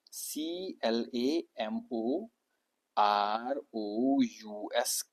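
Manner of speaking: slow letter-by-letter spelling of clamorous; spelled out letter by letter. Shown as a demonstration. Teacher spelling a word for students, slowly letter by letter. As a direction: spell out सीएलएएमओआरओयूएस slowly, one letter at a time. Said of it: "clamorous बोलते हैं".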